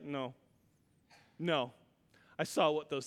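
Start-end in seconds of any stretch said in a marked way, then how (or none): 0.0-1.7 much softer, lower reluctant no; kid refusing. Retold or imitated. Boy refusing the catfish, a soft low no. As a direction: shrink away from the plate.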